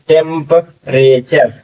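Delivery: टेम्परेचर said slowly, every syllable clear; teacher slowly models टेम्परेचर; slow teaching demo. Shown as a demonstration. (टेम्परेचर धीमे, साफ़ उच्चारण में)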